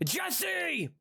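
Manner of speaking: breathy whisper of the name; playful whispered movie reference. Pretend. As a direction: hiss the name secretly. Whispered Breaking Bad bit.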